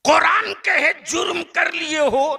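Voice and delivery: loud, high, laughing call of the preacher; preaching shout. Real, not acted. Preacher calling out to his listeners with a laughing shout. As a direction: throw it out to the whole crowd. Preacher calls sinners to come.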